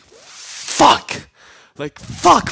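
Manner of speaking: high-pitched exasperated swearing; mock dismay. Obito and Kakashi realizing they are caught, mock dismay. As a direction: curse in a high, comic panic. Retold panicked thought of two characters.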